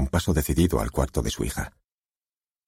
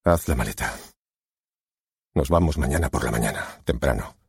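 astonishingly calm; 2 semitones lower than usual. A narrator's reading. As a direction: give the order quite calmly. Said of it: "con voz pasmosamente tranquila".

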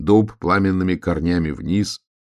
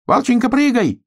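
very high loud shout; high desperate call to the wolf; 5 dB louder than usual. A narrator's reading. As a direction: urge him to jump. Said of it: "крикнул ежик".

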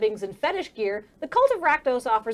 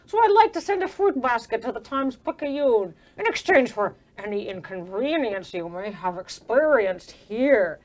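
smooth schmoozer. Acted. GM voicing the doctor smoothing things over with a reporter. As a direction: slide in like a slick fixer. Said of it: "slides in and says".

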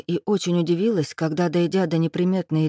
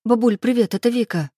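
high, louder, eager hello; pitched-up, hurried cheerfulness; rattled-off greeting; 6 semitones higher, 4 dB louder than usual. A narrator's reading. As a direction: blurt a bright hello to grandma. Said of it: "я затараторила".

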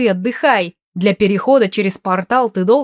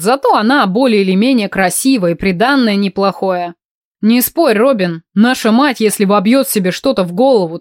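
mocking brother; 4 dB louder than usual. Brother mocks mother's advice loudly.

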